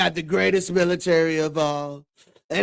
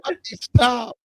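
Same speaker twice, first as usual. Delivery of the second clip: loud, higher fucking stop; shouted stop; 7 semitones higher, 7 dB louder, slower than usual. Retold or imitated. Friend imitating the director's shouted stop. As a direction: yell it like the director. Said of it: "It's like".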